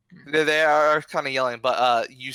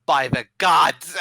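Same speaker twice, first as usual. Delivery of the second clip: louder, higher exclamation; villagers' yell; 4 semitones higher, 6 dB louder than usual. Acted. Villagers seeing their houses burn, moderately loud yell. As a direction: cry out an oath, not at full shout.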